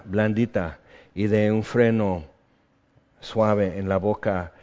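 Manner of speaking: earnest, measured prayer voice; closing prayer. Acted. Pastor leading the congregation in a calm closing prayer.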